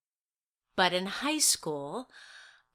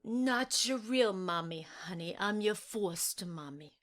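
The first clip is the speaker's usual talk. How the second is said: gentle; 6 dB quieter than usual. Acted. Foster mother soothing child.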